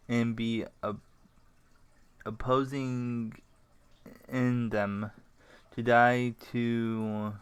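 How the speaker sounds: slow recitation with long pauses; recited soliloquy. Shown as a demonstration. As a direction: recite it from memory, halting between phrases. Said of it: "Can you say something for me?".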